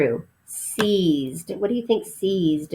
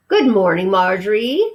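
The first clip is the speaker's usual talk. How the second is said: brisk, louder stern housekeeper; crisp housekeeper; 5 dB louder than usual. Acted. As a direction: greet her crisply, all business. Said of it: "spoke crisply".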